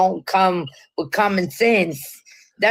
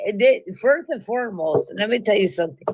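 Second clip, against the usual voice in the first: mock Latina accent; faster than usual. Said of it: "a Latina".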